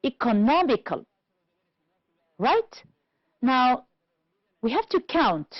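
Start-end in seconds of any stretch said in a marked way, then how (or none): 0.0-1.0 economical with NOM stressed; stressed syllable shown. Shown as a demonstration. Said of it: "let's first identify".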